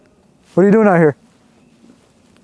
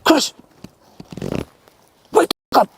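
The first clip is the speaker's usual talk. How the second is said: high call across the camp; urgent call; 9 semitones higher than usual. Real, not acted. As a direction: shout his name to wake him. Calling out to friend at night.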